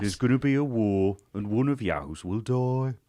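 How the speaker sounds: put-on Brummie accent. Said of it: "the Peaky Blinders accent".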